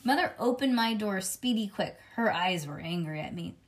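plain reading voice

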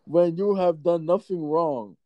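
slow, solemn reading; mystical horoscope reading. Acted. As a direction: deliver it like slow psychic advice. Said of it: "Can you read the horoscope".

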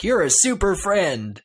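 high, slow, hammed-up superhero greeting; cheesy superhero. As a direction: read it like a cheesy Valentine card. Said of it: "it's cheesy".

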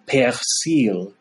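"persil" said the French way, pair-SEEL; slow, French "persil". Shown as a demonstration. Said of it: "If they're French speaking".

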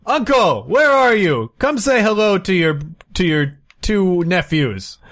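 put-on overdone Cantonese accent, shouting across the room; badly Americanized Cantonese accent. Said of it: "In a badly Americanized, uh, Cantonese accent, uh, Ray calls out".

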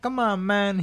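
loud, high-pitched exasperation; mock impatient urging. Diver urging his partner toward bigger work, mock impatient. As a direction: push it out as an imitated protest.

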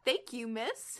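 put-on reluctant, mild British accent; amateur British accent, lightly done; bad British accent. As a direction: attempt a shaky-footed British accent. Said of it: "do a bad British accent".

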